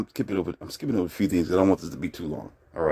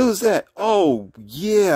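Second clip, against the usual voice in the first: imitating the girlfriend, much higher and louder; mock suspicious woman; 11 semitones higher, 3 dB louder, much slower than usual. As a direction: pipe it up high like a suspicious girlfriend. Girlfriend asking who's calling.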